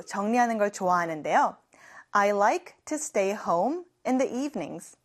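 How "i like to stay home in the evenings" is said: slow, careful teacher read; slow model sentence. Shown as a demonstration. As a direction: say it slowly for learners to copy. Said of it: "제가 방금 말한 문장에". (천천히 또박또박 읽기)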